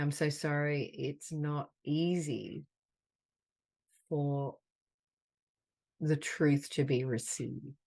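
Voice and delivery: slow, gentle words of comfort, pausing between them; tender affirmation. Acted. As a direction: soothe a hurt friend, unhurried.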